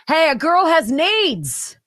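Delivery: slow sassy tease; playful. Pretend. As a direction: say it with sass. Playful jokey line.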